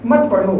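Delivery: मत पढ़ो run together as one phrase; मत joined straight onto पढ़ो; pause before मत. Shown as a demonstration. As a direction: start afresh on मत, no break before पढ़ो. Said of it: "रुक गए हम लोग".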